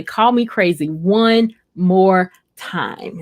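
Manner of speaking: slow, drawn-out mock threat; mock warning. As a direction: say it slowly like a playful dare. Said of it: "And she would say".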